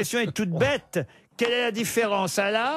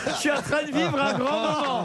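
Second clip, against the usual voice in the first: laughing; 5 semitones higher than usual. Real, not acted. Host amused by the contestant.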